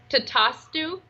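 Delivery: "tatastu" said slowly, drawn out; slow demonstration. Shown as a demonstration. Channeler repeats a Sanskrit word for her guest, slow demonstration. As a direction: repeat "tatastu" slowly with a slight lift at the end. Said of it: "wait, say it again".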